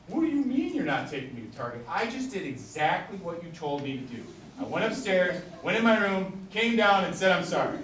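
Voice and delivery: put-on a kid protesting it isn't fair; imitating mad kid. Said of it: "now they're really mad".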